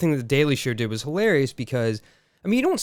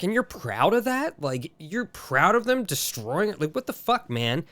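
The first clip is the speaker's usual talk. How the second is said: high, slow, disbelieving pitch on the question; incredulous disbelief; 5 semitones higher, slower than usual. Retold or imitated. Telling a coworker off, in high slow disbelief. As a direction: ask it like you can't believe your ears. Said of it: "And I'm like".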